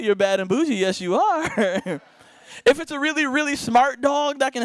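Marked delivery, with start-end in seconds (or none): 0.0-2.0 cooing to a cute dog. Pretend.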